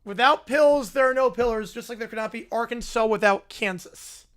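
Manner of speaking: flatly parroting "Without pills, there are no pillars", barely acted; a lightly voiced echo of his pitch; mock repeat. Reacting streamer repeats Caillou's pitch, lightly mocking. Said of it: "That's his entire pitch".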